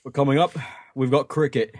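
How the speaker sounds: lightly voiced BBC sports presenter; rising teaser before cricket; announcer voice. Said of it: "you sound like the BBC announcer".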